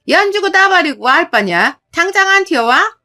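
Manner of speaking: loud, high scolding yell; furious mother-in-law shouting her down; angry shout. Acted. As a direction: snap at her with contempt.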